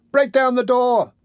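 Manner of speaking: high, drawn-out yell; screamed. A narrator's reading. Boy urging the crowd to break in, screaming. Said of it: "screamed the boy".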